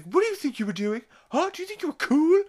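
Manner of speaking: high, loud mock-angry tirade; Stewie yelling. Stewie yelling at Chris on the way home, high mock-angry yell. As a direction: scold fast and shrieky in a put-on voice. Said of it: "Stewie is yelling at Chris".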